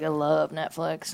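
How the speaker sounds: low, soft and slow; low-key reply. Retold or imitated. Woman texting back her date about Netflix, low-key. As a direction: say it quietly, barely pushing it. First take of a retold reply.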